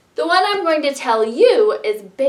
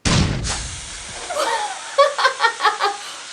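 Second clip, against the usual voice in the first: high laugh; 12 semitones higher than usual. Acted. Laughs after waking up.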